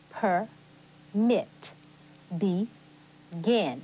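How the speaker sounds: "Permit", "Begin": each split in two, second syllable stressed; stress on last syllable. Shown as a demonstration. Teacher showing words stressed at the end, "Permit", "Begin" with final stress. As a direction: say "Permit" as per-MIT and "Begin" as be-GIN. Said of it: "pronounce a word with the stress on the last syllable".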